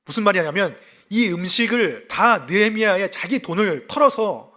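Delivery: usual speaking voice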